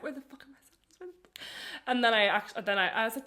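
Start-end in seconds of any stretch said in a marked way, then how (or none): 0.0-1.3 softer, hushed panicked whisper. Retold or imitated. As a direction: hiss it to yourself while searching for lost sandals. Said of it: "I actually started freaking out".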